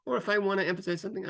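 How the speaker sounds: quick, rushed delivery; sped up. Shown as a demonstration. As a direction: rattle it off fast. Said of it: "I might speed it up".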